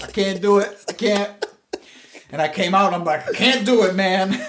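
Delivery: high, loud panicky plea; pleading that you can't do it; freaking out. Retold or imitated. Backing out of the beer run, mock panicked. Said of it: "I started freaking out".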